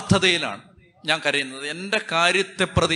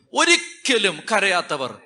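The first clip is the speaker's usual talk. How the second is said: ordinary delivery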